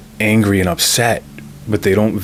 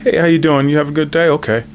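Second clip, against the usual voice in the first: bright, breezy customer greeting, pitched up; mock cool and friendly; 6 semitones higher than usual. Driver greeting the customer after flipping out, breezy and friendly. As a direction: switch on the easygoing charm for the customer. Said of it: "I'll be cool".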